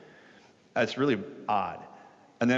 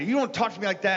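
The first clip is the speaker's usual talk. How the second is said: mock yell back; 9 semitones higher, faster than usual. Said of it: "started to yell back and say".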